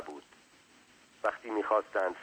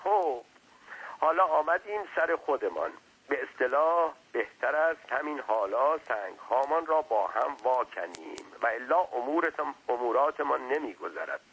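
slightly higher servant's voice; hint of a talkative underling, pitched up; lightly voiced servant; 4 semitones higher than usual. Servant chatting to his master, lightly voiced.

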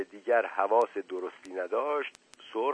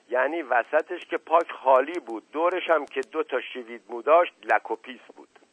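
lightly voiced garrulous manservant, opening loud; a hint of a rustic storyteller servant; earnest tale-telling servant; 3 semitones higher, 5 dB louder than usual. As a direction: swear to it, then spin out the account. Narrator plays the servant Mashghasem telling tales.

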